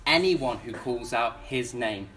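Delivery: low, soft and slowing down; reassuring. Real, not acted. Preacher reassuring doubting listeners, low and slow. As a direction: settle them with a promise. Solemn promise after the doubts.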